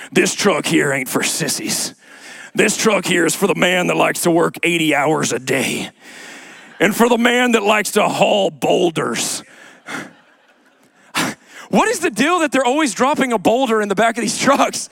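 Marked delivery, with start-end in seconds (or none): 0.1-9.4 low Southern truck-ad announcer voice; deep Southern accent. Acted. Truck commercial guy pitching to Texas men, deep Southern accent. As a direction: play the tough Southern pitchman selling trucks. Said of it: "He's got this Southern accent".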